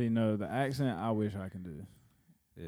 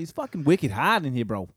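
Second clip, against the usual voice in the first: put-on Boston accent. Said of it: "I'd be like".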